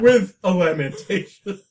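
loud Southern put-on; a drinker savoring his lamentation in a Southern accent; mock Southern accent. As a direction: savor the word like a Southern gentleman. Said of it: "that southern accent that we do".

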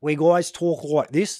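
slow broad bogan Australian, vowels drawn back in the throat; bogan Australian accent. Shown as a demonstration. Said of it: "what we would call very bogan".

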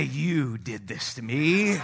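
slow, drawn-out imitation of blame; lightly acted accusing wife, each word stretched; mock accusation. Laboring wife glaring at her husband, mock accusation. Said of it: "as though to say".

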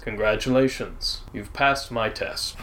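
a hint of a calm deity speaking inside the mind; bear god voice. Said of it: "you hear this voice inside your head that says".

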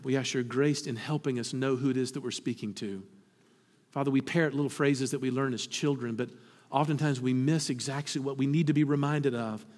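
soft, reverent prayer voice; hushed pastoral prayer; closing prayer. Acted. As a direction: pray quietly for the congregation.

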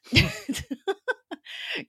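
a high giggle that rises at the end; giggling laugh. Real, not acted. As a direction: giggle at the couple on screen. Laughing about the couple.

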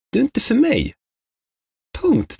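high, final brush-off; flat dismissal. Retold or imitated. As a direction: shut him down in one go. Retold dismissal of a bad match.

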